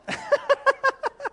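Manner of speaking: loud, high burst of laughter; real laughter; big laugh. Real, not acted. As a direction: crack up at the punchline. Laughs at daughter's line.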